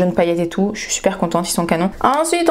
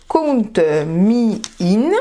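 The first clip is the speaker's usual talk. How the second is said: French accent English; much slower than usual. Real, not acted. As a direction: Count Me In said with a strong French accent. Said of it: "j'ai un super accent".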